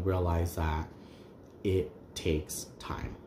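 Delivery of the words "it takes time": softer, near-whispered and slow; hushed. Real, not acted. Telling viewers what the advice taught her, hushed. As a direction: say it almost under her breath.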